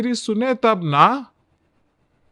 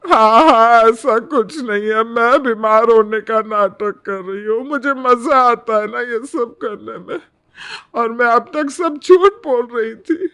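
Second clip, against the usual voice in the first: loud, bitter mock agreement; sarcastic mocking; 2 semitones higher, 4 dB louder than usual. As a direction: throw her words back at her. Mother-in-law mocks the bride's denial. (ताना मारती, ऊंची आवाज़ में व्यंग्य)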